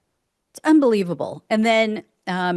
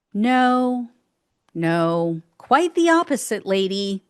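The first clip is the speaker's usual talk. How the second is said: sarcastic retort. Real, not acted. Retort to quoted woman.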